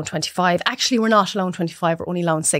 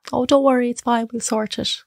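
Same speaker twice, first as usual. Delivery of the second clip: brightly soothing the crying client, a bit higher; calm them down kindly; reassuring; 4 semitones higher than usual. Retold or imitated. Printer reassures a crying couple on the phone, bright and soothing. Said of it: "you're like".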